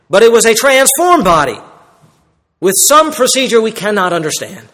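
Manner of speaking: insistent, building pulpit repetition; emphatic preaching. Real, not acted. Preacher insisting to congregation on the risen body, emphatic. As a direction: hammer each repeated phrase to the congregation.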